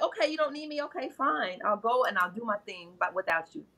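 soft, huffy brush-off; dismissive. Retold or imitated. Women telling men they're not needed, soft huffy dismissal. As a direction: say fine and walk away, quietly offended.

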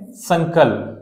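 संकल्प with a clear nasal and a full ल्प; careful pronunciation. Shown as a demonstration. Teacher modelling संकल्प for students, careful pronunciation. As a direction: say संकल्प slowly and distinctly. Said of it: "मैं आपको उच्चारण करके बता देता हूँ".

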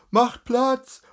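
high, loud street crier's call; crier's shout. Acted. A crier shouting at the crowd to make way, loud call. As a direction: bellow it to clear the road.

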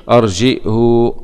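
أرجئه with hamza, slowly, ending "hu"; damma, no sila. Shown as a demonstration. Teacher showing the third reading, أرجئه with final "hu". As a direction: put a damma on the haa of أرجئه. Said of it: "ضم الهاء والهمز بلا صلة".

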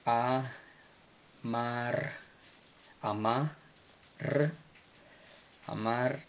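"Amarña" built up piece by piece, long pauses; syllable-by-syllable demo. Shown as a demonstration. Teacher sounding out the language's name for learners, syllable by syllable. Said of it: "en su forma etíope se pronuncia amarña".

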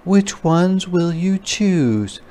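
mama asking which shoes; mama spider. A narrator's reading. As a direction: ask kindly like a mom. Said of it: "said her mama".

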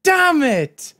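high, slow wail of frustration; frustrated shout. Real, not acted. Player dying just short of forty percent, frustrated wail. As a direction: cry out loudly, drawing out the words.

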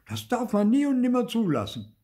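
high, loud outraged shout from the crowd. A narrator's reading. Bystander in the crowd shouting, high and loud. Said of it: "schrie ein Sechster".

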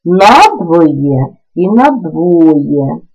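«надвоє» said twice, first stressed on «на», then on «во»; slow contrast of both stresses in «надвоє»; two stress variants. Shown as a demonstration. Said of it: "мають подвійний наголос". (подвійний наголос у слові «надвоє»)

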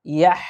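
ইয়াহ with the final h breathed out from the throat; pure ha sound. Shown as a demonstration. Teacher repeats to get the ha correct, ইয়াহ with a pure breathed h. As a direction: finish ইয়াহ on a clean, audible throat h. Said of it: "একটু হায়ের উচ্চারণটা বিশুদ্ধভাবে করার চেষ্টা করব".

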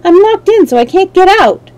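high, loud captive's plea; distressed girl begging to be freed; pleading. A narrator's reading. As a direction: plead for help, voice pitched well up. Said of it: "she pleaded".

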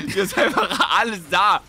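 slow, giggly; laughing through the words. Real, not acted. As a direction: say it while still laughing. Still laughing after joke.

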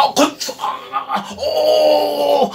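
stereotyped greeting. Retold or imitated. Teacher laughing while mocking a stereotyped greeting. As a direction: ham up a caricature greeting. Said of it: "Isso é estereotipado demais".

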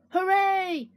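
put-on high, drawn-out kid's cheer; gleeful high-pitched hooray; excited child cheer. A narrator's reading. Child cheers at sitter's arrival.

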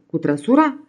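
rising, disbelieving "Cu trăsura?"; stunned question. Acted. Innkeeper can't believe he'll drive up the dunes, incredulous. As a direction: let the disbelief lift the end. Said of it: "se uită la el uluit".

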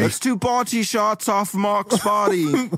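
high, drawn-out party cheer; slow, high-pitched rallying call. Acted. Characters find treasure and propose party shots, whooping it up.

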